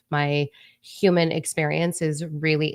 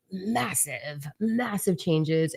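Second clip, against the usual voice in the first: very slow; 5 dB quieter, much slower than usual. Real, not acted. Drawn-out emphasis on massive.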